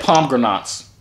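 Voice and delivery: pomegranates said as POM-gruh-nots; "pomegranates" with "nots" for the last syllables; mispronounced pomegranates. Shown as a demonstration. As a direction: repeat pomegranates in three syllables, ending in "nots". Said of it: "what did you say?".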